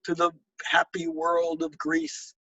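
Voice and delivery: measured, unhurried poetic reading; poem reading. Acted. Poet reading his own poem to an audience, measured cadence. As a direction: let each image land with a pause before the next.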